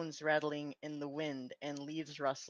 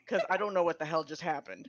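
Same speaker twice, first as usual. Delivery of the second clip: laughing; 3 dB louder, faster than usual. Real, not acted. Laughing at awkward scene.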